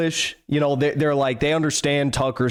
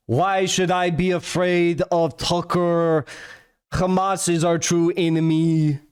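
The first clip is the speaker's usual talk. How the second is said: slow, higher put-on French accent; mock French accent; 4 semitones higher, slower than usual. Mocking the interviewer about Hamas, in a put-on French accent. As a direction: sneer it in a fake French accent. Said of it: "more disgusting French accent".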